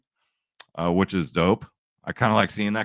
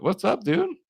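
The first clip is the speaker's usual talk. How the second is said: pet voice; 14 semitones higher than usual. Real, not acted. Greeting cat in baby voice.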